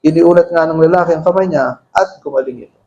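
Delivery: steady unison Bible reading; group scripture reading. Acted. Pastor leading the church in reading Luke aloud. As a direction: read the verses together at an even pace.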